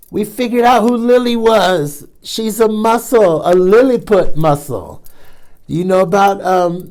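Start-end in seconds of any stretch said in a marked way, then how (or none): 0.1-5.0 a delighted gasp, then higher, eager words; excited gasp. Real, not acted. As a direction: gasp at the big reveal and share it. Reader thrilled by story reveal.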